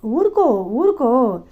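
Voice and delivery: slow, gentle soothing; consoling hush. A narrator's reading. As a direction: comfort her like a crying child. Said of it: "భుజం తట్టి ఓదార్చాక".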